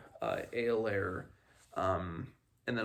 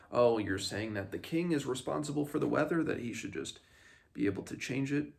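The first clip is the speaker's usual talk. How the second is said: hissy fit; 4 semitones higher, 3 dB louder, faster than usual. Retold or imitated. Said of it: "more like a hissy fit with him".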